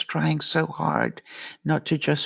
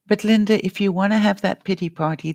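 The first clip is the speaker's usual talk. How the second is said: quick, raised challenge; challenging; 5 semitones higher, 4 dB louder, faster than usual. Real, not acted. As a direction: push back, louder and quick. Challenging Linda's self-pity.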